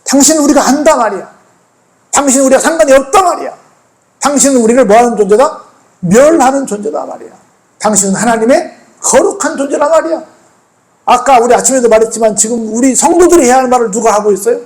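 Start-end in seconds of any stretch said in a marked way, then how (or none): 0.0-10.2 higher, insistent acted accusation; preacher's mildly confrontational demon quote; demons speaking. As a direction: press each point home as the spirits. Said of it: "귀신들이 지금 말하고 있는 거예요".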